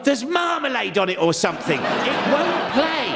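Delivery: insist, scandalised, that the disc is dirty; high old lady voice. Retold or imitated. Lizzie correcting the librarian, in a high indignant old lady voice. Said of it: "She went".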